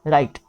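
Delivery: राइट as "rite", no g or h sound; silent GH. Shown as a demonstration. Teacher showing GH after a vowel, राइट said with silent GH. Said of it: "ये silent हो जाएगी".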